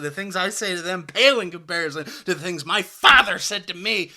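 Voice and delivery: a hint of a clueless tough guy bragging; parodying a fan of Andrew Tate; mock online bro. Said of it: "guys that are just like".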